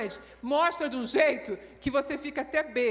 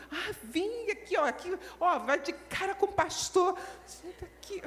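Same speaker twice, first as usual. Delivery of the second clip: mocking; 5 semitones higher than usual. Mocking sister's reply.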